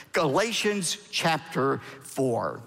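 "Galatians chapter four" slowly and deliberately; slow repeat. Real, not acted. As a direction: space out "Galatians chapter four" for listeners to find. Repeats the reference for page turning.

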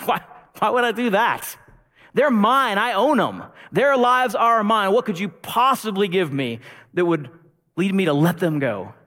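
loud, high, scornful laughing taunt; gloating cruel master. Acted. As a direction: sneer over what you own. Master mocks the rescuer.

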